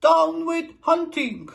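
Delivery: high loud slow hooting cry. A narrator's reading. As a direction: hoot it out earnestly. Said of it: "For he hooted".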